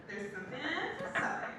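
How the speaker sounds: fast, soft serious tone; hushed confiding. Retold or imitated. Telling her friend at lunch, quick hushed confiding. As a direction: whisper it quickly like a confession. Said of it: "I don't know why we talk like that".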